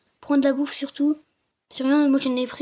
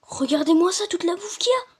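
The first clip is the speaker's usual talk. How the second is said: excited; 5 semitones higher than usual. Real, not acted. Repeats about the food.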